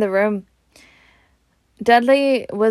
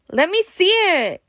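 demanding; 9 semitones higher than usual. Acted. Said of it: "demanded Dudley".

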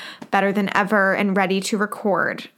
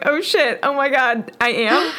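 retold panic; 4 semitones higher than usual. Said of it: "You kinda scared me 'cause I was like".

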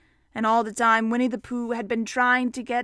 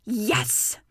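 a touch of bravery; firm little "Yes!", understated; 3 semitones lower than usual. Acted. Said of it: "Then he said bravely".

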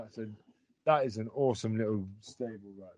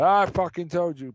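mock shout; 5 semitones higher, 11 dB louder than usual. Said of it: "Kingston will go".

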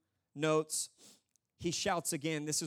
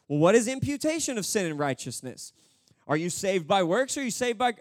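louder, insistent string of questions; interrogating angel; 7 dB louder than usual. Acted. Angel grilling the thief on theology, insistent. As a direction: fire questions like an examiner. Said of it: "one of the angels is like".

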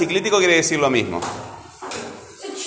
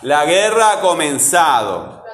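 slow demonstration, leaning on GUE in "guerra" and SA in "comenzado"; stressed syllables drawn out; slower than usual. Shown as a demonstration. Teacher asking pupils to listen for stress, GUE and SA drawn out. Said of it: "Escuchá".

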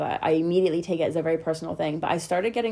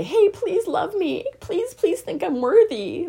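mock pleading; 12 semitones higher, 4 dB louder, slower than usual. Mocking a begging plea.

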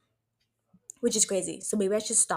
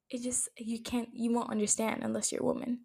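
hushed; 2 semitones higher, 7 dB quieter than usual. Real, not acted. Emotional aside about womanhood.

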